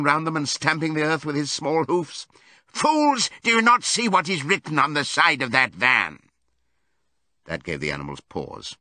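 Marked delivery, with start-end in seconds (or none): 2.7-6.2 high, exasperated cry; frantic shout. A narrator's reading. Benjamin pointing the animals to the van's lettering, frantic shout. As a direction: open on a shrieked insult, then urgent demand. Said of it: "shouted Benjamin".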